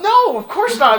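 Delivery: very loud, high outburst; emphatic protest. Real, not acted. Storyteller answering whether he said it out loud, emphatic protest. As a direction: blurt it out in comic disbelief.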